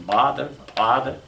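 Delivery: "mother", "father" weighted on the first syllable; MO-ther, FA-ther, stress up front; English stress. Shown as a demonstration. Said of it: "In English".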